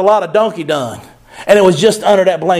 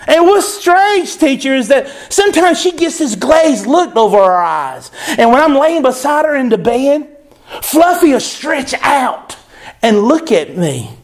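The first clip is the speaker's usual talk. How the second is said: put-on little girl Lucy; 4 semitones higher than usual. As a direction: draw it out like a puzzled child. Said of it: "a little girl named Lucy".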